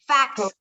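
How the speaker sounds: "fax" with a separate released T at the end, fakst. Shown as a demonstration. Teacher asks class to hear it, "fax" said fakst with final T. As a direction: finish "fax" on a crisp T. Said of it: "¿Escuchan la T?".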